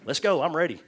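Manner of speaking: put-on high, loud, bouncy child voice; eager little girl. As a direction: chirp it out like a brave four-year-old. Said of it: "she just looks at him and goes".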